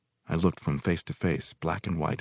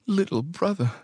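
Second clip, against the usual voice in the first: high, emotional cry of joy; woman crying out in joy; tearful cry of welcome; 12 semitones higher than usual. A narrator's reading. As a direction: cry out to a long-lost brother. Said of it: "a woman's voice cried into my ear".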